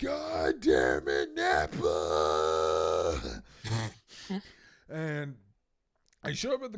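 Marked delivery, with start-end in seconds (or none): 0.0-3.4 furious shout with a crying edge, slow and drawn out; angry yell. Retold or imitated. Storyteller screaming at his friend while driving there, angry. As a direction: scream it out in rage.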